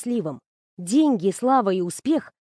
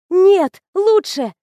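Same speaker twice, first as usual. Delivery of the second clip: loud, high burst of joy; thrilled girl bursting out to her friend; excited squeal; 8 semitones higher, 7 dB louder, much slower than usual. Acted. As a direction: squeal it with delight. Squeals over good news.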